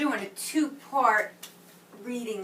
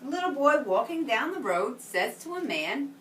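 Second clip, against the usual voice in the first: put-on reading to children. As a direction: read it like a picture book to a class. Reads story to children.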